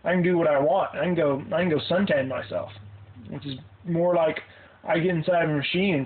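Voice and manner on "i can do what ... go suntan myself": put-on high girly spoiled voice; high airy valley-girl impression; stereotypical girl. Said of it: "the really stereotypical".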